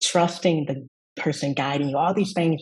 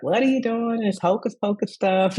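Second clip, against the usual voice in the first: mock-doubting mother, voice pitched up; sceptical Southern mom; 5 semitones higher than usual. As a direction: tease the skeptical mother's disbelief. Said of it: "she was like".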